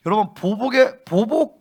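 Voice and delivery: usual speaking voice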